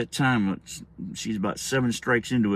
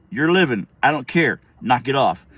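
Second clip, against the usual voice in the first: stern mom dismissal; 7 dB louder than usual. Retold or imitated. Mother dismisses crying child.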